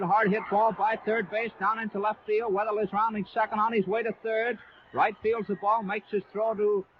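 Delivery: radio announcer lifting his voice on a base hit; excited call of a hit. Real, not acted. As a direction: call the play as it happens, voice lifted. Base hit called live on radio.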